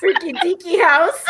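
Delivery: high, loud, cracking up; laughing repeat. Real, not acted. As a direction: echo it through helpless laughter. Laughing at the odd phrase.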